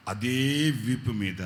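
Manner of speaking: అదే వీపు మీద drawn out very slowly; emphatic slow. Acted. Pastor stressing the same spot on the back, slowly.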